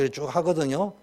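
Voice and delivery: ordinary talk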